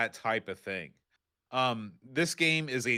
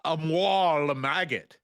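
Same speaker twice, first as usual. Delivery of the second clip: robotic French voice line; old speech synthesizer; 3 semitones higher, 3 dB louder than usual. Retold or imitated. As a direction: imitate a speech chip. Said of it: "it blurts a line like".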